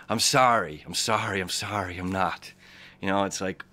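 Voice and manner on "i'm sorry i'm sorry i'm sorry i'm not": getting emotional. Real, not acted. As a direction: let the sorries sink away, moved. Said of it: "getting emotional right now".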